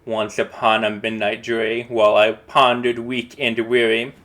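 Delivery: measured first reading of the verse; calm recital of the poem's first line. Shown as a demonstration. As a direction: read the opening line plainly, as verse. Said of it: "we're gonna read it".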